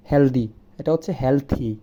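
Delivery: "হেলদি" with a d, then "হেলথি" with a th; change the d in "হেলদি" to the th of "হেলথি"; correct pronunciation. Shown as a demonstration. The teacher corrects heldi to helthi. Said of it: "আমরা বলি".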